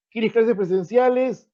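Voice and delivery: slow, clearly rising example question; clear yes-no question tune. Shown as a demonstration. Teacher modelling a question for students, slow and rising. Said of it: "¿vas a ir al cine?".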